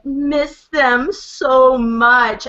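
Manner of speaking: slow, drawn-out imitation of a sad little boy; retold sad child. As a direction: stretch each word, mimicking a heartbroken child. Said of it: "bawling his eyes out".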